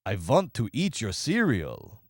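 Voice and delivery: quoting a bad Russian accent, mildly; lightly put-on Russian accent with a v for "want"; mock Russian accent. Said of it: "he goes".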